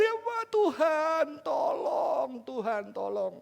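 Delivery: slow mock plea, fading away; ratapan minta tolong. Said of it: "teriaknya karena apa". (ratapan pelan yang makin turun)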